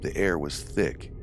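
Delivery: measured read-aloud storytelling; steady narrator reading a first-person tale; story narration. A narrator's reading. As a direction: read a ghost story aloud, evenly paced.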